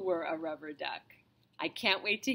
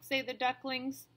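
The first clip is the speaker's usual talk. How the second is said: gentle storybook reading voice; reading to children. Acted. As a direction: read aloud to a small child. Reads a picture book to a child.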